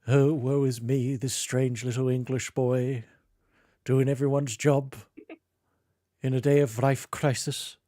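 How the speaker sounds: a hint of Scottish accent, mock tragic; mock Scottish lament. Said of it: "would that be a Scottish boy".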